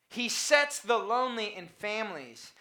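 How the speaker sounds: "sets" en "families" benadrukt, "lonely" licht; stress on sets and families. Shown as a demonstration. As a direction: lean on "sets" and "families", let "lonely" pass. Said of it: "that's the emphasis".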